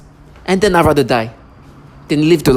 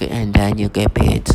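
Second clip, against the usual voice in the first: slow mock-grave delivery; imitating a shill's fake serious voice, slowed down; mock serious tonality; 4 semitones lower, slower than usual. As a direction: parody a grown man forcing a serious tone. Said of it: "when I speak like that".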